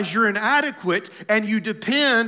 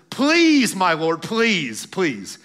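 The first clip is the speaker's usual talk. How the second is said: sarcastic pleading; 4 dB louder, much slower than usual. Acted. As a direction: plead in mock reverence, dragging it out. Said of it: "you can sense the sarcasm here".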